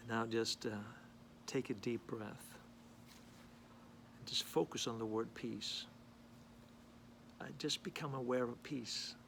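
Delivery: unhurried meditation guidance with long pauses; guided meditation. Real, not acted. Man leading viewers to breathe in peace, calm guided meditation. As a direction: guide them gently into breathing, phrase by phrase.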